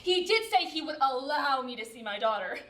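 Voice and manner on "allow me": "allow" leaned on, imitating his wording; stress on allow. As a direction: punch "allow" within the phrase. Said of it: "That's how he said it".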